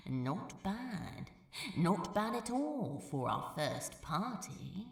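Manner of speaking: a lightly voiced, self-satisfied Crow; pleased with himself. Crow praising their first night out, mildly smug. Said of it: "feeling extremely pleased with himself".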